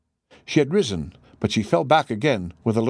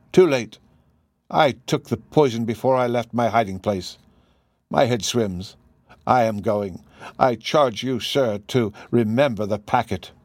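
subdued, sinking, halting phrases; dying words. Acted. Poisoned woman charging Holmes with the packet, dying delivery. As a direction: fade gently, as if slipping away.

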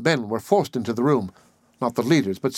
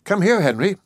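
higher, urgent summons; excited call; 8 semitones higher, 4 dB louder than usual. A narrator's reading. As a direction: call him over excitedly. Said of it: "she cried excitedly".

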